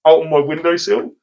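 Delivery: high puzzled disbelief; surprised. Retold or imitated. Retold puzzled thought.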